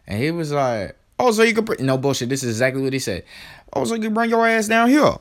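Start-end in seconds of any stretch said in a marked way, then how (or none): 1.2-1.8 cheeky staffer. Retold or imitated. Staffer's cheeky reply retold. 3.7-5.1 higher, louder sassy staffer voice; cheeky staffer. Retold or imitated. Staffer's cheeky reply retold.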